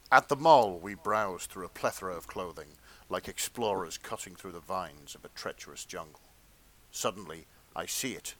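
earnest, measured erotica read; fan fiction narration.

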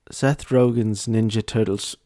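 lightly attempted British accent; put-on British accent. Host announcing the next article in a dubious British accent. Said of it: "I will be speaking in a British accent".

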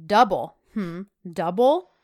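loud disbelieving repeat, then drawn out slowly; incredulous mock. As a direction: sneer at the word as if it's absurd. John mocks the doubled price.

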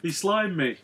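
spooky ghost voice. Pretend. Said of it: "Spooky ghost".

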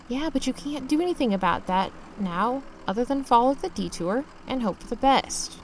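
soft, level inner voice; quiet self-reassurance. Acted. Self-talk in the truck, quiet reassurance. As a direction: talk yourself down under your breath.

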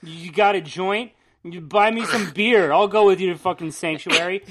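put-on lazy, slowed-down teen slacker voice; mock teenager. Podcaster mocks how teenagers really talk, in a lightly voiced cheeky teen drawl. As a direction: lightly play a cheeky teen hitting up an old man. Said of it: "that's what a teenager talks like".

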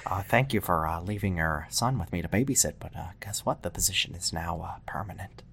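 put-on creepy soft whispered babysitter; whispered asmr role play. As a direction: whisper it sweetly but menacingly. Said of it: "asks for A S M R roleplay".

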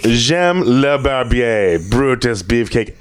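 slow put-on French accent; fake French. Shown as a demonstration. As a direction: ham up the French. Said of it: "That's not French at all".

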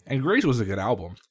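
talking through a mouthful; words round a bite of food; mouth full. Real, not acted. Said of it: "stop talking with your mouth full".

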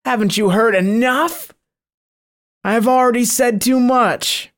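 a devil who has said too much; protesting monster. Acted.

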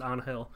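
Angel pronounced AHN-hel; Spanish pronunciation. Shown as a demonstration. Telling how the character's name is pronounced, Spanish pronunciation. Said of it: "it's pronounced Angel".

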